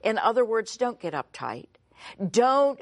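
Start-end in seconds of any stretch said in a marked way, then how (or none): 2.3-2.8 sudden raised, higher and louder voice; escalating voice. Shown as a demonstration. Preacher mimicking someone getting uptight, voice escalating. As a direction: let the voice jump up in alarm. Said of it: "have your voice escalating".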